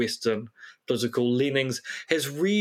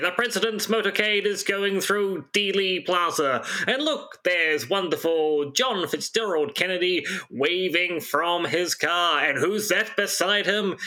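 lightly voiced 1950s newsreel announcer; brisk, bright old radio reporter, lightly done; old-timey news voice; 4 semitones higher than usual. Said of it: "can you do it in an old-timey news voice".

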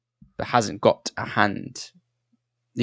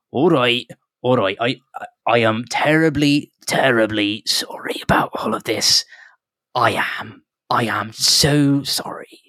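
flustered halfling. Acted. Halfling prospector apologising to the travellers, lightly voiced and flustered. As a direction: babble apologies in a fretful little voice.

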